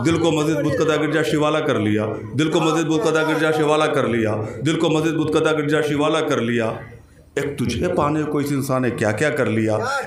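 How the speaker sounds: even, measured Urdu verse recitation; शेर-पाठ. Acted. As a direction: recite the couplet evenly, as an opening reading. शेर दोहराता है. (सधे स्वर में शेर पढ़ना)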